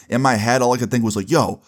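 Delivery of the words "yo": higher, exasperated inner rant; inner angry rant. Retold or imitated. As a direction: vent the outrage in your head. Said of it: "I was in my head just angry".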